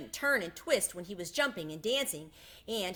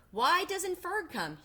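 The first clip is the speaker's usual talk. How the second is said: tearful; 10 semitones higher, slower than usual. A narrator's reading. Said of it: "He began to cry".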